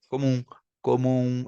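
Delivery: comum with a nasal end, tongue still; Portuguese pronunciation. Shown as a demonstration. Teacher demonstrating Portuguese comum. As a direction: comum trailing into nasal vowel. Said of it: "em português a gente fala comum".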